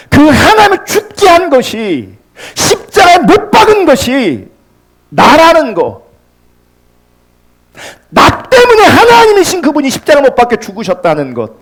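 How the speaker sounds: high, straining pulpit cry; impassioned preaching. Real, not acted. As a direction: cry it out with conviction. Preaches with force.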